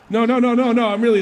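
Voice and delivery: high, loud insistent no no no through laughter; laughing apology. Retold or imitated. Sergeant insisting on apologizing, retold through laughter. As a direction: pile on the apology while cracking up.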